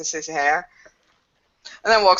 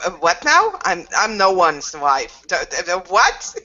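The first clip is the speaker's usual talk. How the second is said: flustered surprise. Acted. Flustered at being called wife.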